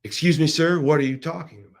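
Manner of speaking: mildly indignant, pitched a little up; a touch of bristling challenge; puffed-up indignation. Retold or imitated. Husband challenges the man propositioning his wife, mildly indignant. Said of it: "kind of puffs up and says".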